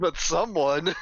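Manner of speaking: amused and teasing with a laugh. Real, not acted. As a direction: laugh through the words.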